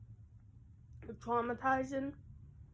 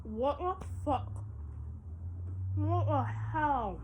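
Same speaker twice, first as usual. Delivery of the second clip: talking while chewing; words through a mouthful of candy; mouth full; 2 semitones higher than usual. Real, not acted. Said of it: "I'm eating with my mouth open".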